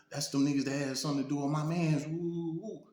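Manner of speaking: high, fast angry explanation; heated justification. Retold or imitated. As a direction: defend her outburst hotly. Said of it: "She like".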